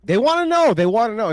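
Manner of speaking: high, loud teasing singsong. Real, not acted. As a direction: loudly tease her for an answer. Teasing guest for chat.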